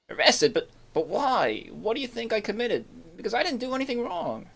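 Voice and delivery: indignant accused. Acted. Voicing accused NPC.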